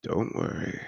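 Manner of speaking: whispered reassurance. Acted. Host calming the guest as he takes her hand, whispered. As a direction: breathe it out as a whisper.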